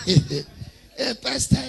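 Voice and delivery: imitated London-affected "pastor"; mock London accent. Returnee from London greeting the pastor, mock London accent. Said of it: "they call pastor".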